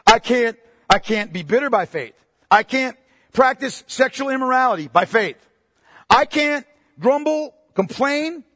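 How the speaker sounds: stack each "I can't" harder until it rings; rising preacher's fervor to a shout; building preached list. Acted.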